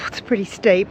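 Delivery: breathless after the climb; puffing between phrases; out of breath. Real, not acted. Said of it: "let me catch my breath".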